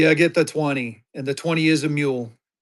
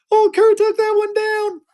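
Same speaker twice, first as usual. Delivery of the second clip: laughing high; 5 dB louder than usual. Real, not acted. Laughing after noticing own high voice.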